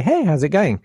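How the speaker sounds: easy, friendly hello; casual greeting, pitched a little up; amiable, chilled greeting. Retold or imitated. Greeting the talent producer by the red carpet, amiable and chill. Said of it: "in an amiable way, feeling pretty chill".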